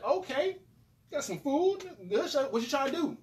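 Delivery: put-on high, eager young voice; hyped about the food; excited. His younger self quoted.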